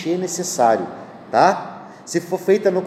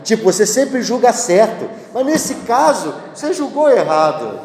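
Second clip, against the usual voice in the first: flattering tone; 4 semitones higher than usual. Retold or imitated. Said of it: "que afago pro juiz isso".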